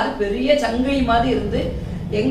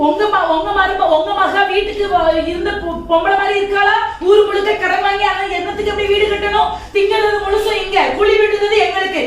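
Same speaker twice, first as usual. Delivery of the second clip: angry rant; 7 semitones higher, 3 dB louder than usual. Acted. Wife rails at mother-in-law.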